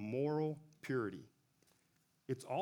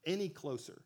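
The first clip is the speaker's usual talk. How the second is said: voice of God; 3 semitones higher than usual. Retold or imitated. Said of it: "and God says".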